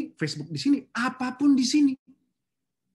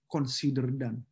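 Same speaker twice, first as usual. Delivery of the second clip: confident calm reply; 6 semitones lower, 4 dB quieter, slower than usual. Retold or imitated. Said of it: "saya selalu bilang dua kata ini".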